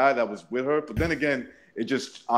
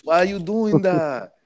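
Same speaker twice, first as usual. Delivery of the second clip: put-on Spanish accent; 9 semitones higher than usual. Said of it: "with an accent".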